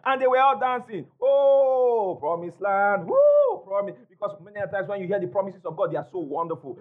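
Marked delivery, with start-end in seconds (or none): 1.2-3.9 giddy cry of promise with a squealed woo; mock excited whoop. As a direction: play the thrilled believer dancing. Mocking dancing excited believers.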